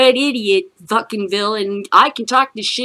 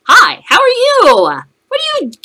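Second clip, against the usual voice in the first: mock-friendly greeting; 13 semitones higher, 10 dB louder than usual. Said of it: "I stood in between people and said".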